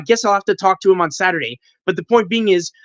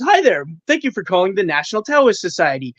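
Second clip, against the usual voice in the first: phone receptionist greeting. Retold or imitated. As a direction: answer the line like a receptionist. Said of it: "and I say, and he says".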